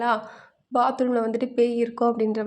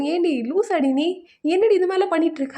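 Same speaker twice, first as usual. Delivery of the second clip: mild mock yell, pitched higher; higher-pitched, half-hearted imitation of angry friends; retold angry scolding; 5 semitones higher than usual. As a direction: act out an exasperated telling-off without really shouting. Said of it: "கோவம் வந்துரும்".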